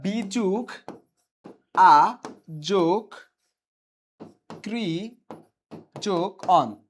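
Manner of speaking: বি, আ, ক্রি, অন said as separate parts with pauses; word breakdown. Shown as a demonstration. Teacher showing students how ব্যাকরণ is built, part by part. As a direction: spell out ব্যাকরণ as বি + আ + কৃ + অন, slowly piece by piece. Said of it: "আর যদি গঠন বলি".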